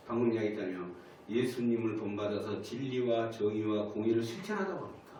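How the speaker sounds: ordinary talk, nothing marked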